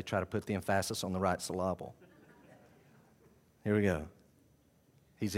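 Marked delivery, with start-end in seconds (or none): 0.0-1.9 "emphasis" said em-FAS-is, "syllable" said suh-LAB-ul; soft aside, wrongly stressing second syllables of "emphasis" and "syllable"; joking misplaced stress. Retold or imitated. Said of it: "As a friend of mine used to say".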